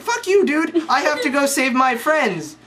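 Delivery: mock whiny Luke. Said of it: "And Luke's like".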